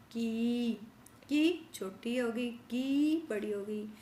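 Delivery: की said short and quick; short vowel demo. Shown as a demonstration. Teacher showing children the short की sound. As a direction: clip की short, then stretch it. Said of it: "जैसे छोटी बोलनी है तो की".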